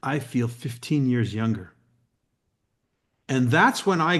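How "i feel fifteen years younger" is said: deadpan. Retold or imitated. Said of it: "looks at me deadpan in my eyes and says".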